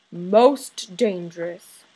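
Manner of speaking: very slow, drawn-out sign reading. Acted. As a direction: stretch each word like a label on a cage. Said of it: "a sign on our cage that said".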